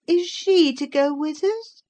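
put-on high childish voice, insistent; a boy demanding an answer. A narrator's reading. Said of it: "he demanded".

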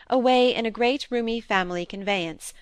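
ordinary delivery

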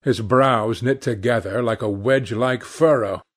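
usual speaking voice

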